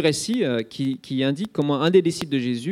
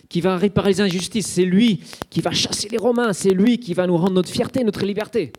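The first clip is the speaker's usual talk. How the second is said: foule pleine d'espoir; 4 semitones higher than usual. Retold or imitated. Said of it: "Ils se disent".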